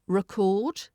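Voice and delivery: "record" as re-CORD, weak first syllable, rising; verb stress. Shown as a demonstration. Teacher showing learners the verb, "record" stressed on CORD. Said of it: "when it's a verb".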